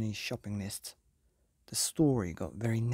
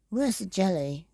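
demanding wolves; 7 semitones higher than usual. Acted. Both wolves demand jelly.

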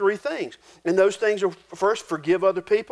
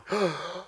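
mock-scandalized gasp; shocked gasp; 7 dB quieter than usual. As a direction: gasp like an affronted preacher. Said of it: "the preacher's there going".

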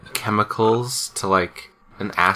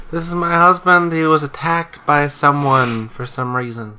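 pleading mock claim; 5 semitones higher than usual. Quoting claim at hospital.

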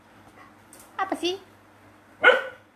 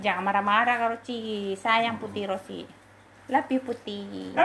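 tender soothing; 4 semitones lower than usual. Real, not acted. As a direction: soothe the pets, pitched low. Soothing jealous pets with affection. (menenangkan dengan lembut)

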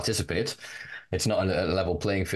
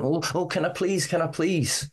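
high-pitched imitation of meek begging; mock timid pleading; 10 semitones higher than usual. Activist mocking people in a fear box, high meek pleading. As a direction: plead like someone cowed, put on. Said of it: "putting ourselves in this little fear box".

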